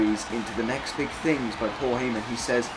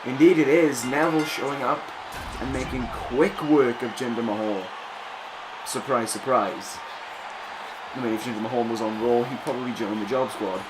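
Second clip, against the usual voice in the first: wrestling commentator. Acted. Calls the match play-by-play.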